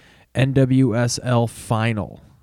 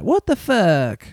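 slow, much higher mock outraged wrestling manager; Jim Cornette voice; 8 semitones higher, slower than usual. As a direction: drag it out like a scandalized old promoter. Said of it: "I'm gonna do this whole thing as Cornette".

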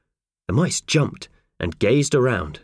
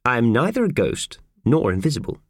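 calmly; 5 semitones higher than usual. Acted. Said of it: "said the voice calmly".

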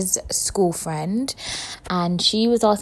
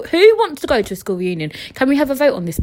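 ordinary talk

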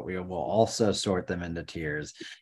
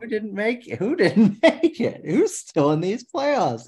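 high-pitched laughing question; 12 semitones higher, 4 dB louder than usual. Real, not acted. Laughing while asking.

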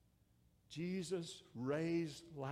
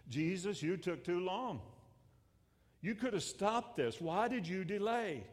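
higher-pitched, pleading complaint; acted reproach; 5 semitones higher than usual. Preacher voicing Martha's complaint to Jesus, reproachful. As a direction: demand an explanation, voice pitched up.

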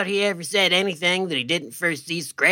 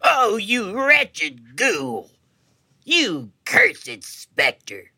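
melodramatic; 5 semitones higher, much slower than usual. Acted. Melodramatic curse at the ghost.

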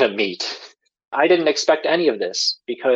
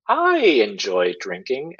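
careful answer; slower than usual. Retold or imitated. Wary answer to aunt's question.

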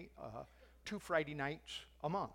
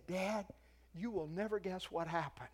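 mildly excited, a little higher; excited retelling; 4 semitones higher than usual. Retold or imitated. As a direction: tell it as eager news to Dad. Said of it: "He was so excited".

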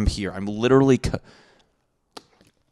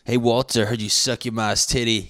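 mock schoolyard taunt; 3 semitones higher, 4 dB louder than usual. Imagined kid bully taunt.

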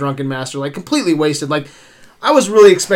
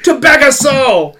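put-on Venezuelan accent; 7 semitones higher, 3 dB louder than usual. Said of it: "that's your Venezuelan accent".

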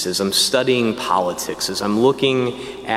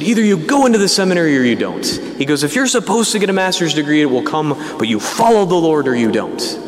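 blunt ultimatum; 5 semitones higher, faster than usual. Retold or imitated. Priest bluntly lecturing the student.

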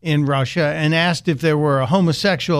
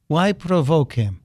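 bad Russian accent; hammed-up mock Russian accent; Vladimir Putin voice. Host repeating Putin's remark in disbelief, bad Russian accent. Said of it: "again in my bad Putin voice".

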